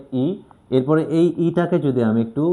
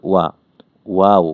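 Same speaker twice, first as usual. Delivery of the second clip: a sudden louder wow of wonder; amazed wow; 3 semitones lower, 6 dB louder than usual. Shown as a demonstration. Teacher acting out amazement at a swimming swan. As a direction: gasp out wow like seeing a swan. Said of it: "ওটা দেখে আমরা ওয়াও বলি না?".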